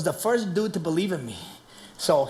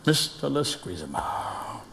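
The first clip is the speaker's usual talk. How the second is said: lower, slow teacher calling a student; stern teacher; 7 semitones lower, 6 dB quieter, slower than usual. Retold or imitated. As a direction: drag out the name like a scolding teacher. Math teacher calling name.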